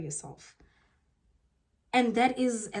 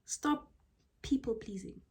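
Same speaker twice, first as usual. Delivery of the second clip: whisper; 2 semitones higher, 7 dB quieter than usual. Shown as a demonstration. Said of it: "whispered advice".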